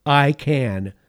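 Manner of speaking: loud, firm I can; triumphant declaration. Acted. Preacher to congregation, loud triumphant declaration. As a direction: declare it like a victory. Declares victory over can't.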